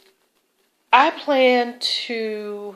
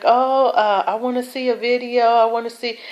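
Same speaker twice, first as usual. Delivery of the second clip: higher-pitched imitation of eager viewers; mock happy; 4 semitones higher than usual. Viewers begging the vlogger for a video, mock happy. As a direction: play an overexcited viewer, lightly hammed-up. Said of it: "don't get all happy and be like".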